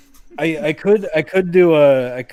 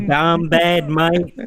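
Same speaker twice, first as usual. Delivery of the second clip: mock Bogan accent. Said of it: "Bogan accent".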